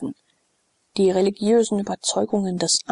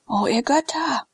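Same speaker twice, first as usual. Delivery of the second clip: higher, anguished appeal to the gods; despairing cry; 6 semitones higher than usual. Acted. Sallust, hearing Glaukus may die, crying out in despair. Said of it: "rief Sallust verzweifelt".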